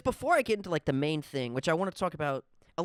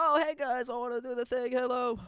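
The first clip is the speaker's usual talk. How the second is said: half-hearted president voice; 7 semitones higher than usual. Retold or imitated. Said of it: "wanna do a Trump accent right now".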